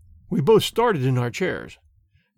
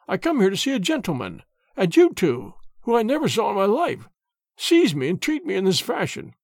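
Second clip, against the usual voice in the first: put-on indignant old sailor; 3 semitones higher than usual. Old man protests indignantly.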